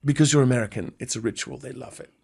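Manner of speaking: hushed London journalist, fading away; soft-spoken mock London accent. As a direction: put on London British, sinking to very soft. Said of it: "I'm talking about London journalists".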